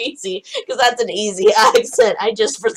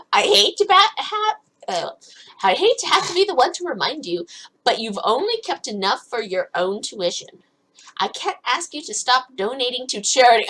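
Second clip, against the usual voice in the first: ordinary talk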